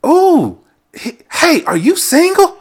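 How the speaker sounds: a mock customer flirting over the phone; flirty caller. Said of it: "I'm assuming a black woman".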